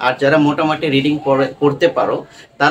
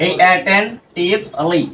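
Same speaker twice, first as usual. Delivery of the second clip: 1 slow demo; 2 semitones higher, much slower than usual. Shown as a demonstration. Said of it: "এই লিটা হলো word pattern".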